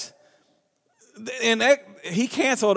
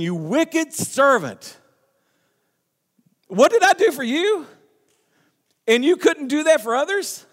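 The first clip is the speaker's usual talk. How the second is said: angry rebuke; 9 semitones higher, 4 dB louder than usual. Acted. King scolding the servant he forgave, furious shout. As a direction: thunder down on the ungrateful servant.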